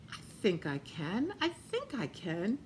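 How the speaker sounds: quiet resolve. A narrator's reading. Little engine quietly encouraging herself to try, soft and murmured. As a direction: talk yourself into it under your breath. Engine gathering courage softly.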